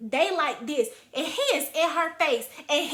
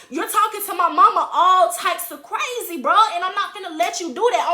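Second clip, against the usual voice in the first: loud, fast angry warning; 4 dB louder than usual. Retold or imitated. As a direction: threaten him, fast and fierce. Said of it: "And I'm like".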